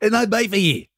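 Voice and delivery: high-pitched, "here" ending on an exaggerated EE; "here" with a stretched EE, falling at the end; teasing vowel demo. Shown as a demonstration. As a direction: pitch it up and overdo "here" as HEE. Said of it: "No, try ear".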